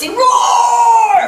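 put-on high, loud childish protest; insistent kid shout. Little boy insists to mom his snake roars, shouting high. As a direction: yell it like a stubborn little boy.

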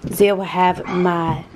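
muddled put-on foreign accent, vaguely Asian; vaguely Asian-sounding accent. Host presenting dinner, put-on vaguely Asian accent. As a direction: present dishes in a loose mock Asian accent. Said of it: "You sound a little or-, Asian".

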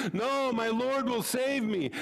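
stubborn rabbi. Acted. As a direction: turn it down with calm confidence. Rabbi refuses boat.

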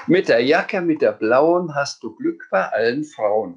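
put-on lively read-aloud for children; animated children's book narration; story reading. A narrator's reading. Reads the Sams book aloud.

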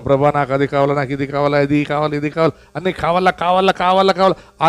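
greedy praying voice. Retold or imitated. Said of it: "మనమే చెప్తాం దేవునికి".

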